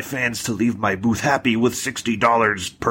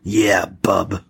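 Wolverine. Acted. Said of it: "really bad version of the original X-Men, like, Wolverine".

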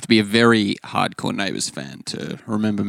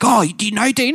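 puzzled window cleaner; 12 semitones higher than usual. Retold or imitated. Window cleaner asks about Dean.

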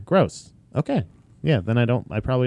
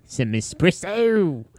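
put-on South African accent; 2 semitones higher, much slower than usual. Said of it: "That's my South African".

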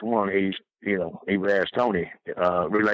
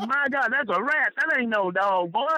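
laughing; 12 semitones higher than usual. Retold or imitated. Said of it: "I said".

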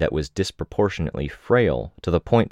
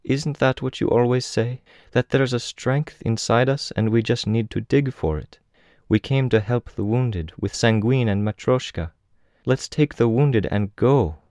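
put-on high-pitched girl with a Russian accent; gentle Russian-accented young woman's voice; soft Russian accent; 7 semitones higher than usual. A narrator's reading. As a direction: speak much higher, softly Russian-accented. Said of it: "her voice harboring a soft Russian accent".

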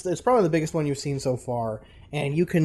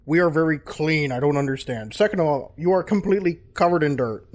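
louder indignant king listing grievances; huffy ogre king; 3 dB louder than usual. Acted. Ogre king lists grievances before ordering guards, huffy. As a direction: lay out the insult point by point, huffy.

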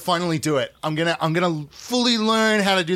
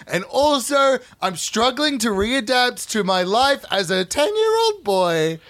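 put-on ten-year-old boy voice; 3 semitones higher than usual.

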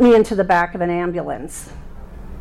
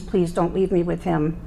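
retold pleading; 3 dB quieter than usual. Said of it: "I had begged them".

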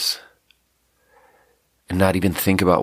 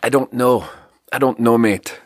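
slight South African accent; a hint of South African accent; 4 semitones higher than usual. Real, not acted. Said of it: "All the words wanna come out South African today".

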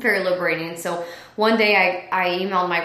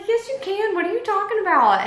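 much higher, insistent friend; friend's brisk pep talk; 12 semitones higher than usual. Retold or imitated. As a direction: cut the doubt off, firmly encouraging. Friend's retort voiced in story.

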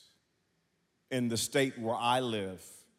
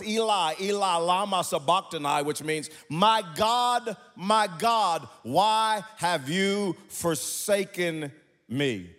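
higher, louder cry from the cross; 9 semitones higher, 7 dB louder than usual. Acted. Preacher reading Jesus crying out, raised pleading cry. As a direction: call out in anguish. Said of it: "cried out in a loud voice".

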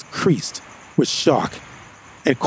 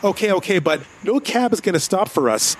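reluctant agreement; 6 semitones higher than usual. Acted. Conceding but objecting.

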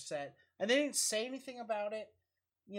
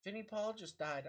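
hushed bad news; 8 dB quieter than usual. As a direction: break it gently. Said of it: "James just looks at me and goes".

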